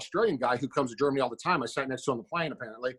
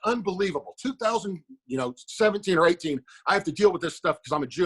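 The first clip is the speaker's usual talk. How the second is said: mock indignant outburst, pitched up a little; retold fit; 3 semitones higher than usual. Man protesting to a cop at the airport, mock indignant. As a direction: throw a mild, put-on fit of outrage. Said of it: "I started throwing a fit".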